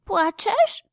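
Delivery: high, astonished question; surprised. A narrator's reading. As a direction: ask in surprise. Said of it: "Zdziwiła się wiewiórka".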